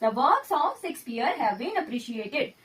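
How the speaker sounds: very slow, each word spaced out; slow dictation. Shown as a demonstration. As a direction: dictate the sentence slowly to students. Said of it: "तो इस वाले sentence में आएगा works".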